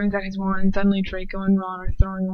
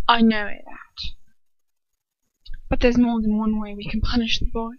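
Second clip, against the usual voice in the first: Bellatrix retort. Acted.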